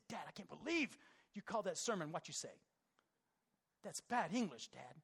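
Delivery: lightly voiced daughter, mild teasing reproach; a hint of an English-major daughter correcting Dad; daughter scolding. Quoting his daughter's mock scolding of Dad. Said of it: "she said".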